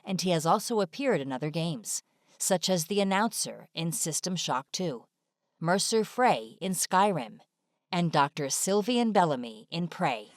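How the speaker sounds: normal talking voice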